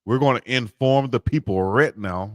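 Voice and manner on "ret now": "right now" with "right" turned into "ret"; drawled "right now". Shown as a demonstration. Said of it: "not right now, but right now".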